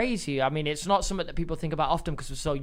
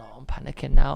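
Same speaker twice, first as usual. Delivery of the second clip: retold panic; 3 semitones lower, 5 dB louder than usual. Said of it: "then I've started going".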